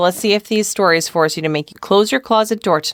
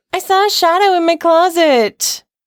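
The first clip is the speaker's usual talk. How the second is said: put-on high-pitched, drawn-out, slow, frightened child's voice; 11 semitones higher, 4 dB louder than usual. A child answers their mom at bedtime, in a high-pitched, elevated voice. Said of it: "in a high-pitched, elevated voice".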